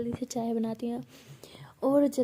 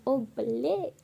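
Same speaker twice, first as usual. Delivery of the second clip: cheerful exclamation; much slower than usual. Shown as a demonstration. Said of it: "मैं तो हमेशा बोलती हूँ".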